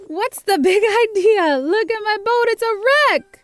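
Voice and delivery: squawky high duck voice, upset; Donald Duck voice. Acted. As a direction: play the cranky duck, loud.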